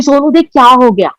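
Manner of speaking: calling out high and loud in shock; panicked cry for help. Retold or imitated. Wife cries out to her husband after the acid attack, panicked and loud.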